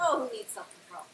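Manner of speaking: laughing through a mock-careless question; tossed off with a laugh, teasing; laughing quip. Real, not acted. Teasing the host about chugging cognac, laughing.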